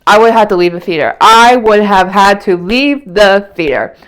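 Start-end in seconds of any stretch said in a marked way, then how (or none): 1.2-4.0 slower, each word leaned on; repeating it slowly to drive it home; slow emphatic repeat. Real, not acted. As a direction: drag it out for emphasis. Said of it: "repeated line".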